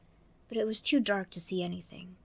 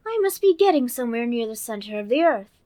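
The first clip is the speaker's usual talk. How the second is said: put-on high, bright little girl voice; Alice voice; 4 semitones higher, 12 dB louder than usual. Narrator voicing Alice, girlish and eager. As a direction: play young Alice talking to herself.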